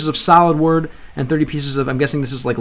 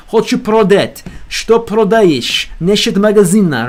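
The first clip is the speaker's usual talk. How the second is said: Russian read with a heavy Russian accent; deliberate, exaggerated native-style Russian accent; 2 semitones higher than usual. Shown as a demonstration. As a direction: lean into the Russian accent, drawing words out. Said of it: "I try to do same accent".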